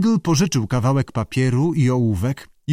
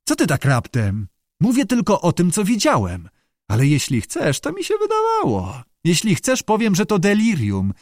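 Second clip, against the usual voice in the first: higher-pitched backpedalling; flustered; 6 semitones higher than usual. A narrator's reading. Startled sailor backs down before angry mate, flustered. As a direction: hastily placate him, pitch lifting. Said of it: "wykrztusił zmieszany".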